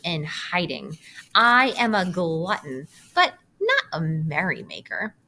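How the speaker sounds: a smug glutton of a rat boasting; a hint of a sly, greedy rat. Templeton the rat voiced.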